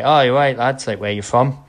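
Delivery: a hint of an ultra's accent and voice; imitated local bloke. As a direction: lightly mimic the bloke coming over. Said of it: "In exactly that accent and voice".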